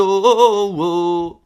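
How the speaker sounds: loud, high fake astonishment; hammed-up wow; mock amazed oh. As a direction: gasp at the pile of comments. Mock surprise at comments.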